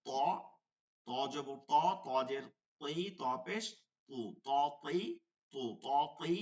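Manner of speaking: ত said thick and full-mouthed; heavy ত. Shown as a demonstration. Teacher drilling Arabic letters for students, heavy ত. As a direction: make each Arabic ত heavy and emphatic. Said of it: "মোটা করে".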